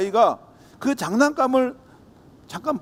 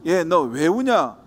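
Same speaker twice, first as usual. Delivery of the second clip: slow kind question; much slower than usual. Acted. Passerby asks crying child.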